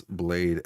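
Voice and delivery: "blade" stretched into two syllables, blah-day; alternative pronunciation. Shown as a demonstration. Streamer offering a pronunciation, "blade" as blah-day. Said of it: "You could pronounce blade as".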